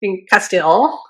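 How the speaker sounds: Castile in a Hispanic accent. Shown as a demonstration. Co-host demonstrating on request, Hispanic accent. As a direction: say Castile with a Spanish-speaker's accent. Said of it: "a white girl accent versus a Hispanic accent".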